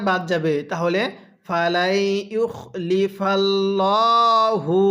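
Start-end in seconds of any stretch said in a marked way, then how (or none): 1.5-4.8 drawn-out chanted recitation; slow melodic Quranic chant. Shown as a demonstration. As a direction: recite it like a tajweed teacher. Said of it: "কিভাবে শিখব?".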